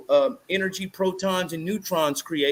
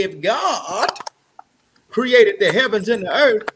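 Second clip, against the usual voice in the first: preacher voice; 4 dB louder than usual. Pretend. Preacher-style repeat.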